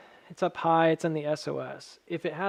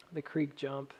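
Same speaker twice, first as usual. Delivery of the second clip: whistle on the s sounds; airy whistling sibilants; 8 dB quieter than usual. Real, not acted. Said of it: "sorry for the whistle".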